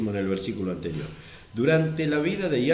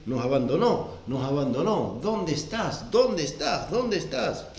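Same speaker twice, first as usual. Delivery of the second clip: questioning wail, half acted; mock lament; 3 semitones higher than usual. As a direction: cry out as if abandoned. Believers lamenting feeling abandoned.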